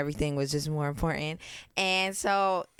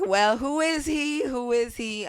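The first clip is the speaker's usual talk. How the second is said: nosy curiosity; 6 semitones higher, 3 dB louder, slower than usual. Retold or imitated. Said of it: "everybody's gonna be like".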